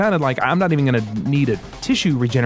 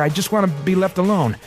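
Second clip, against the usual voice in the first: strained, high-pitched plea from a struggle; short of breath; 6 semitones higher than usual. A narrator's reading. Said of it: "barely able to take in breath".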